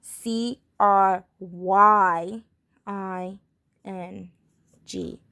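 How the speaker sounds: letters spelled out slowly; slow spelling. Shown as a demonstration. Teacher spelling slowly for students. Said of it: "It's gonna be".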